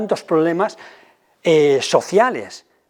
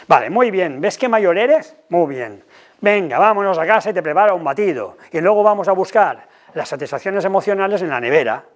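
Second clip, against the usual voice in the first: mock-cheery parent. Shown as a demonstration. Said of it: "Vamos a ver cómo ayudamos".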